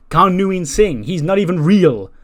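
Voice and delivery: high, loud incredulous protest; exasperated disbelief. Retold or imitated. Lyra telling Becky a suspect isn't real, exasperated disbelief. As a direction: push the pitch up in disbelief.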